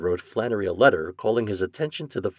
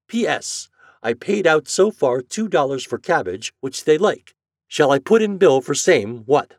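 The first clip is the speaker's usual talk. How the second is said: higher, louder, emphatic rustic clerk; indignant express agent; 6 semitones higher, 5 dB louder than usual. A narrator's reading. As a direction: read it like a stubborn working man's letter. Flannery's letter read in his voice.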